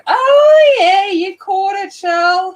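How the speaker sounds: high, loud burst of delight; excited exclamation. Real, not acted. Vlogger thrilled a viewer caught the stream, excited shout. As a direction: yelp it out with glee.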